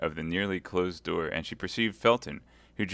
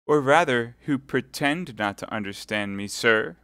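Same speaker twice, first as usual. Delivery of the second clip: louder, incredulous; smile of incredulity; 5 semitones higher, 6 dB louder than usual. Acted. Milady accusing Felton of pretending. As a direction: doubt him with a knowing smile. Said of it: "with a smile of incredulity".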